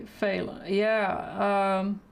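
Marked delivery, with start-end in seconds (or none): 0.0-0.6 fail said as FAY-la, no T; pronounced FAY-la. Shown as a demonstration. Painter demonstrating how artists say the colour name, pronounced FAY-la. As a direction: say fail as two beats, FAY-la. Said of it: "Here they say".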